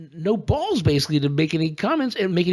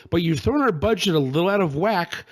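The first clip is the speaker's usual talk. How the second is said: quoting Trump; 4 semitones higher than usual. Retold or imitated. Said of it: "he said to the people of Puerto Rico".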